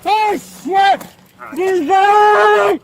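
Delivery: talking around keys in mouth; crying out with mouth full; key in teeth. Real, not acted. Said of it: "I got my keys in my mouth".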